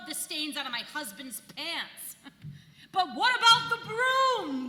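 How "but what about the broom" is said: mock devil crying out, louder; hammed-up tempter calling out; devil's cry. Goody Garlic voices the devil crying out about the broom. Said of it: "the devil would cry".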